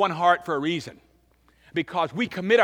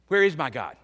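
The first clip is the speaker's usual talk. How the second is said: louder, pressing cry toward God; 3 dB louder than usual. Shown as a demonstration. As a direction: raise it into an urgent call. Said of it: "demands you say".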